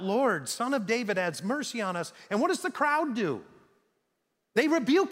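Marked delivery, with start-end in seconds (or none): 0.0-2.1 mock shout. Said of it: "They shout out".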